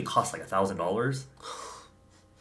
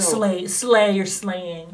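excited hype; 8 semitones higher, 7 dB louder, much slower than usual. Real, not acted. Hyping the makeup.

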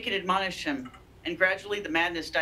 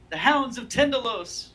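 higher and louder, a terrified cry; shriek; 8 semitones higher, 4 dB louder than usual. A narrator's reading. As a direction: shriek the name in horror. Character shrieks in horror.

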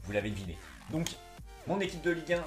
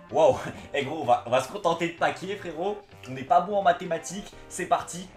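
excited exclaim; 4 semitones higher, 8 dB louder than usual. Real, not acted. Pack opening excitement.

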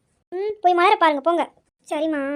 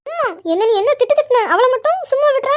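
whiny complaint; 6 semitones higher than usual. Acted. Daughter complains of unfairness.

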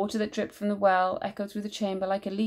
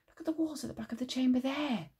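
higher, eager call; excited cry; 6 semitones higher, 6 dB quieter, faster than usual. A narrator's reading. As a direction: cry out in wonder. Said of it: "Oak cried".

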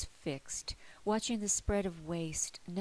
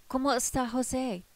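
higher, louder questioning voice; asking in Spanish; 7 semitones higher, 6 dB louder than usual. A narrator's reading. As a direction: ask it brightly, a bit anxious. Narrator voices her own question.

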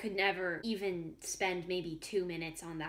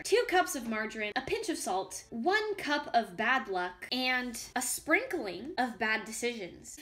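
mock recipe read. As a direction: read it like a cookbook, unhurried.

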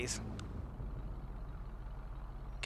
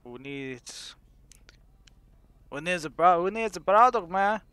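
gruff, coarse street voice, louder; rough it up, gruff and coarse; 3 semitones higher, 6 dB louder than usual. Acted. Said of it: "I don't know how to speak if it's not all gruff and coarse".

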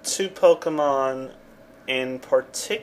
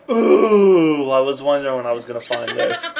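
overexcited; 6 dB louder than usual. Retold or imitated. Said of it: "I'm like".

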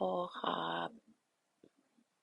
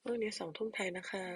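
secret whisper; 7 dB quieter than usual. Real, not acted. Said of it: "พูดไม่ได้ค่ะ".

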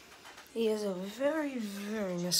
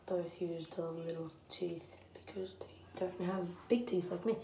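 whispering; 3 semitones lower, 5 dB quieter than usual. Real, not acted. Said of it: "I really wanna be quiet".

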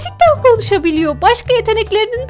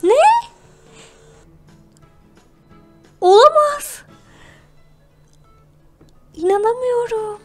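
surprised; 6 semitones higher than usual. Acted. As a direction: gasp it out in disbelief. Shocked at dog's abilities.

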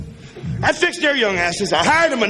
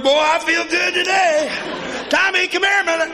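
cheery dad; 8 semitones higher than usual. Retold or imitated. Cheerful dad calling his son.

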